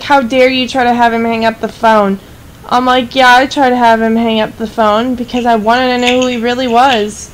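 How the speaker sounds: muffled, hard to make out. Real, not acted. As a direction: speak as if muffled on the line. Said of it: "Your speech is a little muffled".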